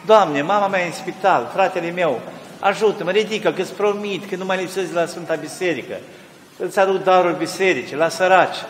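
fervent preaching. Acted. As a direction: preach it with urgency. Preacher's sermon opening, fervent.

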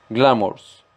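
Glamours with the weight on Gla; stress on first syllable. Shown as a demonstration. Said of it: "acentuación o fuerza en la primera sílaba". (acento en Gla de Glamours)

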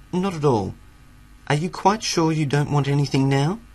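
a hint of a cool, insistent cat; lightly voiced cat. A narrator's reading. Cat pressing the retreating dog, lightly acted politeness.

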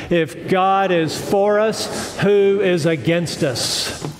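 slow, spaced-out congregational reading; leading group recitation. Real, not acted. Preacher repeats the verse with congregation, slow recitation. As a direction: recite it slowly so everyone can join. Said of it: "One more time".

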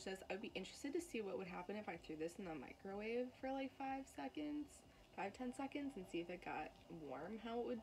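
eating between words; talking while chewing. Real, not acted. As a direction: mouth partly full. Seen 0: Bitten bar in hand, fingers at lips, lips pursed as if chewing.

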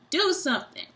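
high, loud pleading shout; desperate plea. A narrator's reading. Uncle Ned floating away begging for help, loud. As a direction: beg them to act.

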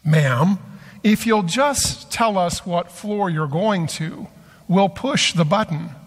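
politely voiced request, lightly acted. Man politely asking the frightened woman which floor, mildly courteous. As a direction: ask with gentle, mild courtesy. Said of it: "say politely".

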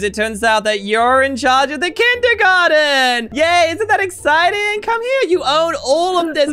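put-on high, drawn-out cheer for a child; coaxing excitement. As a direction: sell the good news to a crying kid. Breaking happy news to crying child.

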